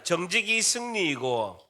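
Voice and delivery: slow, measured slogan for repeating; leading a repeat-after-me. Shown as a demonstration. Preacher has the congregation repeat a slogan, slow and measured. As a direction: say it slowly so they can follow. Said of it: "저를 따라합니다".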